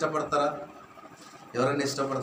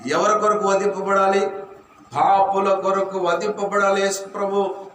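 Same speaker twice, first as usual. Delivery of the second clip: fervent preaching; 3 semitones higher than usual. Acted. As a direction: preach it with rising force. Builds preaching.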